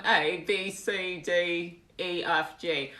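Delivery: alphabet in fake British accent; British accent demo. Shown as a demonstration. Streamer reciting on request, fake British accent. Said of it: "you say the alphabet".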